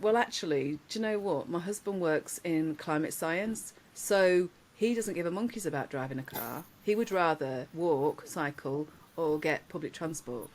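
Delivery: composed retort, quietly measured; controlled, understated put-down; outwardly calm. Retold or imitated. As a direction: keep it calm while bubbling inside. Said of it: "I was very calm. Inside, I was bubbling".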